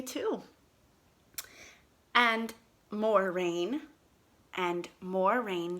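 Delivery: slow storybook reading aloud; reading to children. Acted. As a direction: read it slowly to little kids.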